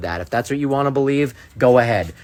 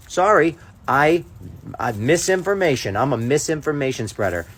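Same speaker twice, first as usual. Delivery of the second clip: mock-sheepish apology, pitched up at first; 4 semitones higher than usual. Speaker mimics his own promised public apology to viewers, mock contrite. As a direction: put on a half-hearted public confession.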